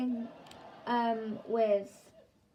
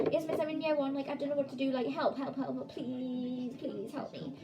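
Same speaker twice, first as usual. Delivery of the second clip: talking really fast; 3 semitones higher than usual. Retold or imitated. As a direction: rattle off a pupil's plea for help. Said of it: "I'm talking, like, I'm talking, like, really fast".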